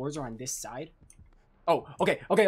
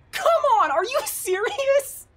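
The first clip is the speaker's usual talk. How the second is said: incredulous; 14 semitones higher, 6 dB louder than usual. Real, not acted. Incredulous mocking teammate.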